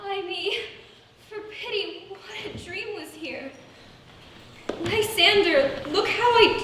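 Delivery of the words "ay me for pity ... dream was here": hushed. Acted. After waking from a nightmare.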